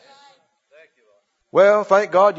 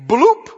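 imitated plop; 4 semitones higher, 3 dB louder than usual. Imitates sinking into the ocean.

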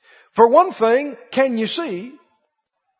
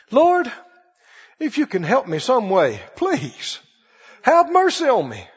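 imitated pleading prayer. Preacher imitating how Christians talk to the Lord, pleading. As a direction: lightly act out begging for mercy. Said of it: "have you heard talk like this?".

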